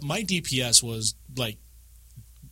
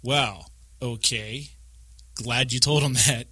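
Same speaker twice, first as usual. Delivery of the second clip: slow, drawn-out sarcastic quote; dry retold grumble; mock unimpressed; slower than usual. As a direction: imitate a put-out teammate, taking it slow. Retold dry reply to first-timer.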